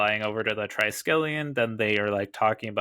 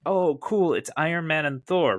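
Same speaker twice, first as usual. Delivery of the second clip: higher, louder mock-excited reaction; excited reader; 6 semitones higher, 4 dB louder than usual. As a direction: geek out at a big comic reveal. Imagined reader reacting to reveal page.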